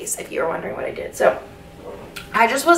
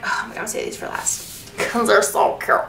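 whispered thought; 4 dB quieter than usual. Retold or imitated. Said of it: "So I'm like".

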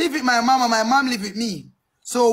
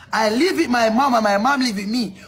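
deliberately slower, patient explaining; said more slowly. Acted. Interviewee patiently slowing down for the officer. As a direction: spell it out slowly for someone dense. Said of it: "I will say it more slower".

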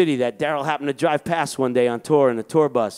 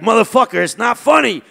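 high-pitched, louder indignant rant; mock outraged friend; 9 semitones higher, 5 dB louder than usual. Daryl snapping at his laughing friend on the phone, high indignant yell. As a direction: act out a furious friend who's been wronged. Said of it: "He's like".

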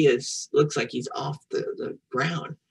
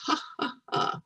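imitated laugh; 12 semitones higher, 6 dB quieter than usual. Shown as a demonstration. Acts out "fun" for children.

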